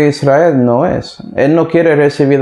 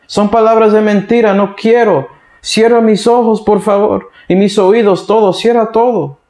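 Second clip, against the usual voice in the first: higher, whiny complaint from a spoiled king; king sulking about the prophet he hates; petulant king; 5 semitones higher than usual. Acted. Preacher voicing King Ahab, petulant and higher. Ahab refuses to hear more.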